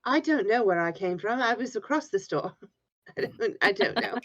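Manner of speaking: a hammed-up, terrible Cockney accent slipping into Australian; a second take, aiming for a Dick Van Dyke-level bad Cockney accent; deliberately bad Cockney accent. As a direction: play the Cockney as badly as you can, laughing through it. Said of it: "tried for a bad Cockney accent".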